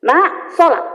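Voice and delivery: a mother's third, sterner call to pray; firmer call. Shown as a demonstration.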